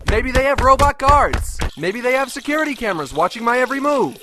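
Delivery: high-pitched nerdy rant; whiny ranting character. Acted. Whiny ranting character voice all through.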